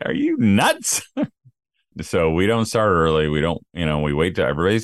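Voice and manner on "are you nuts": high, disbelieving mock question; incredulous. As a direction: act shocked at the idea. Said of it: "I'm like".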